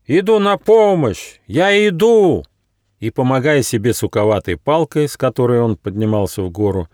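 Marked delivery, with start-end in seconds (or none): 0.1-2.4 high, loud slow call; loud shout. A narrator's reading. Nyufa shouts loudly that he is coming to help. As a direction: shout up the mountain to the stranger. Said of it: "громко крикнул".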